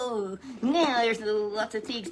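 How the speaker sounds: high, loud, laughing puppet. Acted. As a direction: puppet giggles at the pigs.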